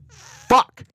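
sudden loud high yelp; cursing in pain; pained shout. Real, not acted. Hits arm on table.

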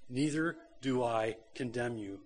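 lovingly forgive her in a hushed tone; gentle and loving. Acted. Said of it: "graciously and gently and lovingly says".

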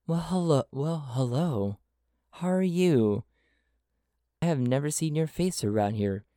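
a stranger warmly welcoming a newcomer to the bar; very friendly. Acted. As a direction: greet a stranger with open friendliness. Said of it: "he says in a very friendly manner".

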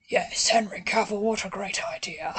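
"what a great idea" dropped into a whisper; imitating an actor lowering his voice to sound old; mock gravitas that sinks into a whisper; low, fading to a whisper. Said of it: "he just lowers his voice".

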